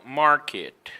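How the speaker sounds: market with a full American R; emphatic R. Shown as a demonstration. Teacher correcting the faulty versions, market with emphatic R. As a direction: press firmly on the R in market. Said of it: "always emphatic like".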